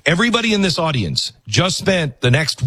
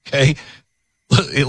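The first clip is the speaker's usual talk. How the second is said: ordinary talk, nothing marked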